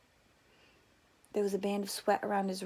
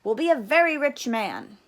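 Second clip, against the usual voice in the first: father's voice; 3 semitones higher, 8 dB louder than usual. A narrator's reading. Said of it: "he said".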